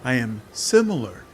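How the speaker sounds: a many-bodied demon whispering its bargain; hissing swarm demon. Acted. Swarm demon coaxing the hero to free her.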